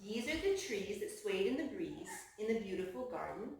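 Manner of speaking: hushed picture-book narration. Acted. Reading to children.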